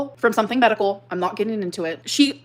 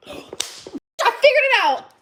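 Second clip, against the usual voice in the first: surprised; 12 semitones higher, 3 dB louder, much slower than usual. Real, not acted. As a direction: gasp then higher, slow triumphant discovery. Sudden realization.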